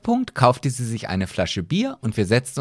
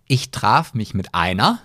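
laughing; 3 semitones lower, slower than usual. Real, not acted. Reading breaks into laughter.

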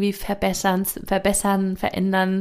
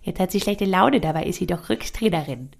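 mocking inner voice; 2 semitones lower than usual. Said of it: "in meinen Kopf reingegrätscht und gesagt".

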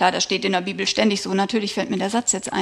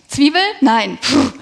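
worried sniff check; 3 semitones higher, 6 dB louder, slower than usual. Retold or imitated. Acting out her sniff test.

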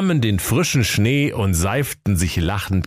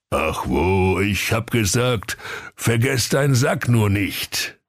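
playing innocent; slower than usual. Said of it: "tat ganz unschuldig".

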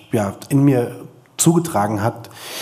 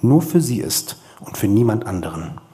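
measured, intimate reading of a letter; literary reading. Acted. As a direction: read it like a letter to your father. Author reads literary letter aloud. (getragene Lesung eines Briefes)

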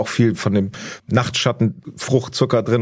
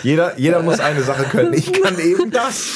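Wasser im Mund; 5 semitones higher than usual. Real, not acted. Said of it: "Ich erschaffe ein Vakuum".

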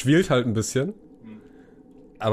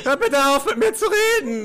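high, pleading exasperation; fed-up prisoner; 4 dB louder than usual. Acted. Prisoner sick of cellmate's talk, exasperated. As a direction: beg the cellmate to shut up, acted annoyance.

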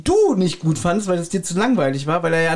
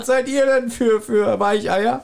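mocking gruff man; 8 semitones higher than usual. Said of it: "nach dem Motto".

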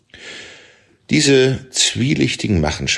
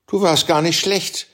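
higher, brisk voice of a cocky challenger; voiced tennis player; 10 semitones higher than usual. A narrator's reading. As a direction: push him to play, teasing and sure. Abel's voice.

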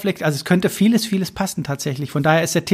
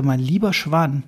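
ordinary delivery

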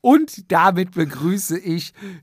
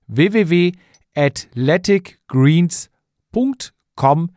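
slow spelled-out URL; slower than usual. Shown as a demonstration. Reading out the web address.

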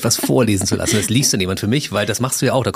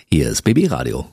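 much lower, announcer-style station ID; radio voice; 8 semitones lower than usual. Shown as a demonstration. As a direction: boom it out like a radio jingle. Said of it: "also die Radiostimme".

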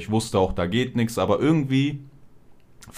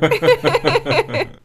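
squealing high laughter; 5 dB louder than usual. Real, not acted. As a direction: break into shrieking laughter. Laughs at pipe joke. (hohes Lachen)

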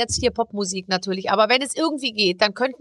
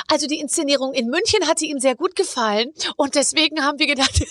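engaged mother; 3 semitones higher than usual. Retold or imitated. Mother defending her son to annoyed operagoers, mock earnest. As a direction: justify yourself like a devoted parent. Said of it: "so richtig so als engagierte Mutter".

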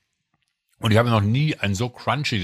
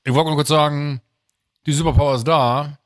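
video guy quote; 5 semitones higher than usual. Retold or imitated. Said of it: "im Auto sitzt und sagt so".

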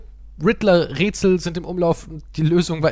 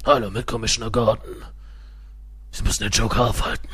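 lower, gruff mock Batman voice; extremely deep bass voice; 4 semitones lower than usual. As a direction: ham up the low Batman growl. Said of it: "Ich fand's immer so ein bisschen".

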